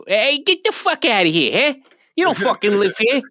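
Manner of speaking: half-hearted tough cousin kicking out squatters; imitating the cousin. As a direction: bark him out of the house like a bouncer. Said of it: "he'd be like".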